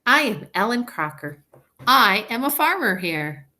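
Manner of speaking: teacher voicing Ellen the farmer; Ellen's voice. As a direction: proudly tell them you farm here. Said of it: "change your voice if you wanted Ellen to sound a little different".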